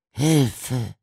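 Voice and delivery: high, loud, desperate plea; buried man crying out in terror; desperate cry for help. A narrator's reading. Buried man calls up the pipe, desperate cry. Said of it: "rief Walter Smith".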